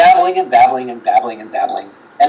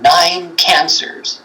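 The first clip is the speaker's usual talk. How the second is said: slow ghost voice; 3 semitones higher, much slower than usual. Retold or imitated. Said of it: "It says".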